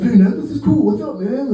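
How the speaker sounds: high, eager hello to a vendor; upbeat greeting. Retold or imitated. Tourist greets a street artist, upbeat greeting.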